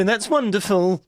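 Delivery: usual speaking voice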